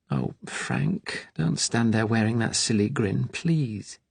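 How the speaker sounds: a mother's worried plea, softening; lightly voiced anxious mother; pleading mother. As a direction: coax him gently, almost begging.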